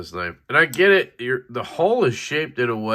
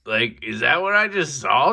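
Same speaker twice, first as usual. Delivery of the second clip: excited question; 6 semitones higher than usual. Retold or imitated. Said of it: "I was like".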